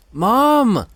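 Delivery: very high, loud scream of agony; scream for mom. A narrator's reading. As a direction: scream for her in pain. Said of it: "he screamed out".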